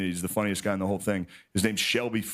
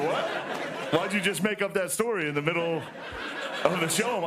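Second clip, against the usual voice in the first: incredulous; 7 semitones higher than usual. Retold or imitated. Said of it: "You go".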